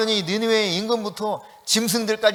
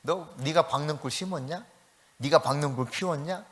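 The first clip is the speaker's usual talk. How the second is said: softly voiced, lower questioning; coaxing; 4 semitones lower, 6 dB quieter than usual. God soothing Jonah about the vine, coaxing. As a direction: reason gently with a sulking prophet. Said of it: "요나를 달래면서".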